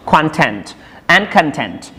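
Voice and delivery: content said first stressed on the first syllable, then content with stress on the second; two ways of saying content. Shown as a demonstration. Teacher showing content the noun, then content the adjective. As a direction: contrast KON-tent with kon-TENT. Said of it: "this is pronounced as".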